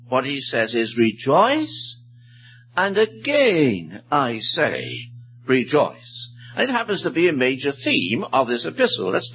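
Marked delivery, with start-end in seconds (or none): 1.0-6.3 "Rejoice" drawn out, then "again I say" very slow and deliberate; stress on rejoicing. Shown as a demonstration. Preacher showing the epistle's stress on rejoicing, slow emphatic "rejoice". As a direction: lean on each "rejoice", pausing before the repeat. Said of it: "the stress on rejoicing".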